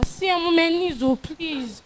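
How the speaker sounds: meek plea for money; soft begging. Acted. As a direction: beg her quietly on your knees. Begging on her knees.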